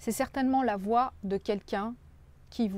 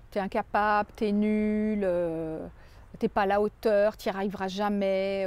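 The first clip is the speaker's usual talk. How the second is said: a louder, mock scolding critic; harsh critic; 4 dB louder than usual. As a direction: throw the put-downs at them like a harsh inner critic. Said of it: "quand on vous dit". (critique intérieure moqueuse, plus forte)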